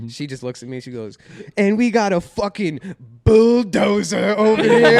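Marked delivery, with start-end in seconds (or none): 1.6-5.0 loud, high mock-British heckle; hammed-up British jeer, drawn out; British accent. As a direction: bellow it slowly in a put-on Cockney accent. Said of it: "she was doing a British accent".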